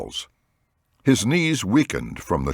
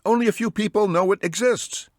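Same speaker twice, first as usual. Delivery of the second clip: high surprised exclamation; exclaiming. A narrator's reading. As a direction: blurt it out in shock. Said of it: "Danny exclaimed".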